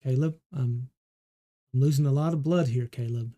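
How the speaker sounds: quick panicked words that fade away; bleeding out and scared; fading wounded doctor. Acted. Doctor bleeding, losing strength.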